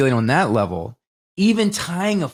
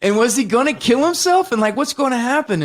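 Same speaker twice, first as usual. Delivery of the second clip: mock shocked, louder exclamation; incredulous; 9 semitones higher, 3 dB louder than usual. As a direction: pitch way up in alarmed confusion. Viewer's incredulous reaction to noose.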